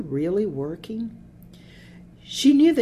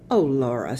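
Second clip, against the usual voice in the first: sympathetic; 3 semitones lower, 4 dB louder than usual. A narrator's reading. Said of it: "Sylvia said sympathetically".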